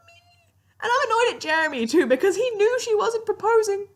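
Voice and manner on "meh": dismissive meh. Real, not acted. Dismissive meh about proposal.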